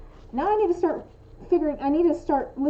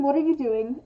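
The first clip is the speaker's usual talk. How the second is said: each word distinct, mildly reproachful; full, pointed question as a demo; accusing. Shown as a demonstration. Contrasting two tones of one question, accusing. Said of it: "there's a difference between".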